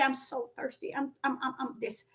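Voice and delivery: faint, faded plea of a parched man; weak thirsty plea. Retold or imitated. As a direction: beg feebly, almost out of voice. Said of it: "If somebody walk up until you say".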